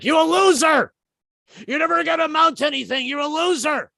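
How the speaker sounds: high, mocking inner-voice jeer; taunting morning demon. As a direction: sneer at yourself like a nagging demon. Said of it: "I call them the morning demons".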